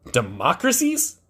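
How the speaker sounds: slow, rising disbelieving repeat of Democracies; incredulous echo. Real, not acted. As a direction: echo the word back like you can't believe it. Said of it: "Wait, what?".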